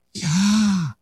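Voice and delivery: "Yahweh" said like a breath in and out; breathy name demo. Shown as a demonstration. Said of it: "Sería algo así como". ("Yahweh" pronunciado como una respiración)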